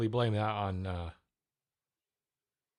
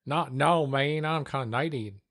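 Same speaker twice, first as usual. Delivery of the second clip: put-on a touch of a Canadian accent, slow and louder; slow lazy Canadian accent; 4 semitones higher, 4 dB louder, slower than usual. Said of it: "they're too lazy".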